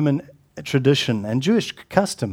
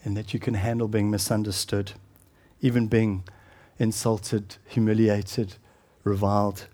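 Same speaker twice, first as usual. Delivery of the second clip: hushed intensity; 6 semitones lower, 6 dB quieter than usual. Acted. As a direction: drop the voice to a hush. Quiet intense sermon passage.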